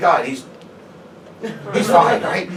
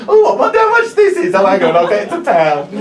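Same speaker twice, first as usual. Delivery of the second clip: put-on drunk woman; 9 dB louder than usual. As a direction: slur it like a drunk bargain hunter. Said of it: "She says the thing that everyone says".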